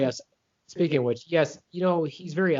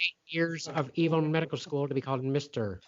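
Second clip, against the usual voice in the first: pitched-up, indignant movie villain; put-on supervillain voice, higher at the start; Doctor Evil; 5 semitones higher than usual. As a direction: correct them as a pompous evil mastermind. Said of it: "or Doctor Evil is great".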